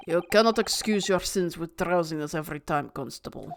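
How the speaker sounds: low, quiet rebuke; stern judge. Acted. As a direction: scold the sleepy officer. Judge scolding constable.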